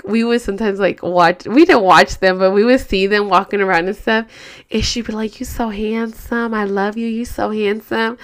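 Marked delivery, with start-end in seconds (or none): 5.4-8.2 softly mimicked adoring catchphrase; imitated doting girlfriend. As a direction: gush lightly, imitating a smitten girlfriend. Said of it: "me and my husband picked that up".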